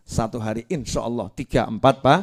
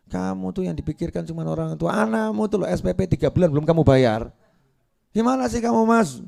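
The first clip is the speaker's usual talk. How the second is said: nagging wife; 5 semitones higher than usual. Acted. Wife scolding husband.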